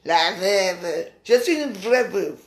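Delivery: slow, mild mock of a stuck-up old biddy; voix de rombière moqueuse, à peine appuyée. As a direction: drawl it out like a snooty dowager, lightly. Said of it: "avec sa voix de rombière".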